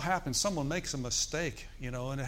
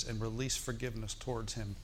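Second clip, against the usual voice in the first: inner voice; 4 semitones lower, 7 dB quieter than usual. Retold or imitated. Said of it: "And he says".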